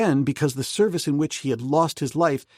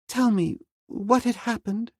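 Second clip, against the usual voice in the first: put-on higher young woman's voice, anxious; Jane Porter; 11 semitones higher than usual. Jane Porter asking Clayton about the lieutenant, high and anxious. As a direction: voice a worried young lady, pitched up. Jane's voice.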